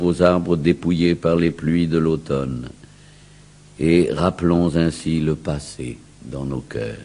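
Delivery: ordinary delivery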